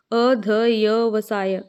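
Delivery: slow, drawn-out separate sounds; letter-by-letter breakdown. Shown as a demonstration. Teacher breaks the word for students, slow letters. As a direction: sound out each part slowly. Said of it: "या नहीं आएगा".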